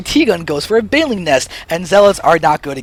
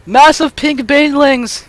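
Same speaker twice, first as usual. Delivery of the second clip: drawn out, higher, thrilled; excited; 7 semitones higher, 3 dB louder, slower than usual. Shown as a demonstration. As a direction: savour each word with glee. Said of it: "But look at the massive pink Banelings!".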